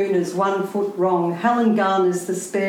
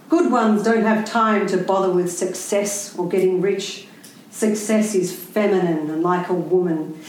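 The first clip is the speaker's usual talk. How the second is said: preachy quote. Retold or imitated. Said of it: "He preaches".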